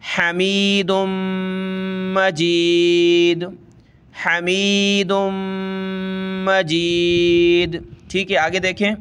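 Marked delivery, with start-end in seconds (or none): 0.1-7.8 हमीदुम मजीद with the meem through the nose; nasal ikhfa. Shown as a demonstration. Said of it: "नाक में sound बनाना है". (नाक में आवाज़)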